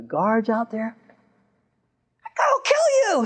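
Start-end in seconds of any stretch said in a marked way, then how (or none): 2.2-3.2 very high, strained mock yell; acted high-pitched angry cry; mock threat. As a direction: imitate a furious threat, pitched way up. Voicing shouted threat heard outside.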